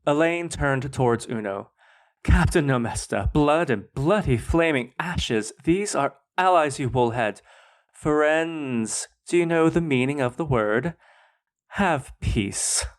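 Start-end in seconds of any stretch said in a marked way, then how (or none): 2.2-12.9 sharp royal rebuke. Acted. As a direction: dress him down in front of the guests. Queen rebukes her cursing captain.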